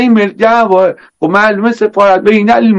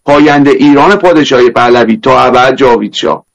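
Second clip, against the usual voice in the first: Isfahani accent; 5 semitones lower than usual. Shown as a demonstration. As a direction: lay on a thick Isfahani accent.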